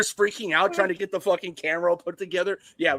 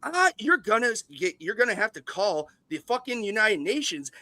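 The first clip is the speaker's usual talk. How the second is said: higher, louder furious studio boss rant; Les Grossman rant; 5 semitones higher, 3 dB louder than usual. Retold or imitated. Podcaster imitates the mogul threatening a rival, higher and louder. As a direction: scream threats down the phone like a raging mogul. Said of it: "my best Les Grossman impersonation".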